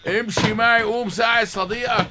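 high, forceful urging; urgent commands. Acted. Jamal urging his friend to get up and help, high forceful commands. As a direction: order him up, urgently.

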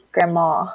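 "grandma" with an AW ending; own pronunciation. Shown as a demonstration. Host repeats her own word for friend, own pronunciation. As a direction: let "grandma" end on a long "aw". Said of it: "like, I, like A W".

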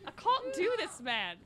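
laughing. Real, not acted. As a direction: try to talk through a laughing fit. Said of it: "'cause I was laughing".

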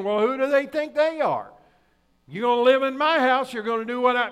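a hammed-up parent scolding a teenager; mock stern parent. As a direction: play the indignant parent laying down the law. Parent voiced scolding grown kids.

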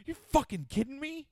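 high-pitched exasperated rant; acted angry disbelief, pitched high; dad cursing him out. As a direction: imitate a fed-up dad complaining. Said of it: "my dad motherfucking me".

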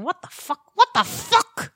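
imitating swearing bird. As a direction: parrot the phrase, building in pitch. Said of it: "video of the bird saying".

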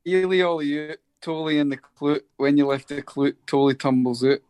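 thick Glasgow dialect rhyme; heavy Scottish accent. Shown as a demonstration. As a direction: broadest Scots you can manage. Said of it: "Do it even harder".

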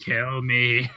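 drawn-out mock plea; hammed-up misery; pitiful monster. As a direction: put on a wretched creature's plea. Voicing a pitiful boss begging death.

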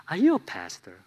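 laughing mock question from his wife; teasing wife. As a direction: tease him, laughing through it. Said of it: "but she says".

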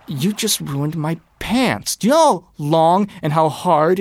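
slow, drawn-out indignant inner voice; stunned grievance, dragged out word by word; indignant thought. Acted. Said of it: "pops to my mind is".

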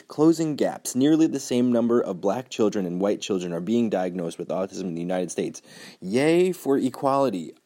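mock cheerful reading; sarcastic mock celebration. Shown as a demonstration. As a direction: read it with fake enthusiasm. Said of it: "I'm being sarcastic".

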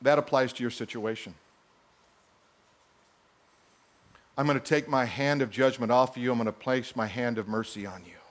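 low, soft imagined divine voice; Spirit of God speaking. Retold or imitated. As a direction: lightly voice God, low and subdued. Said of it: "Spirit of God might speak to me".

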